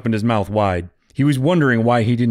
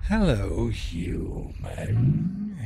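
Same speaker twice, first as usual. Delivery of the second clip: hissed; 7 dB quieter, much slower than usual. A narrator's reading. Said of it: "hissed a voice from the darkness".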